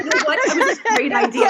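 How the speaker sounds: put-on a quick slip into a French accent; hint of a French accent. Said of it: "my French accent".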